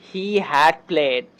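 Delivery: very slow, stretched out; slow model sentence. Shown as a demonstration. Teacher slowly modelling the English example. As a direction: lay each word down for learners. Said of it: "যেমন".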